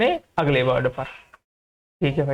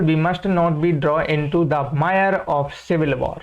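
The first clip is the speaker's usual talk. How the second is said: very slow reading; much slower than usual. Shown as a demonstration. Teacher reading the example sentence to students, very slow. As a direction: read the example slowly, word by word. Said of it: "teacher reads example sentence".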